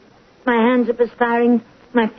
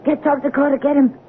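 high, desperate pleading; 3 semitones higher than usual. Acted. Patient begs nurse to fetch the doctor, high and desperate. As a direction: beg for the doctor as if dying.

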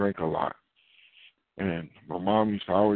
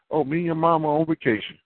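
lightly higher, breezy reply; parent answering casually; 6 semitones higher than usual. Retold or imitated. Parent telling the grown child, a hint of breezy. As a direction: toss it off like a carefree parent.

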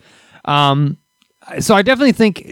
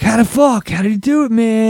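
baffled exclamation; 8 semitones higher than usual. Retold or imitated. Driver's baffled reaction retold.

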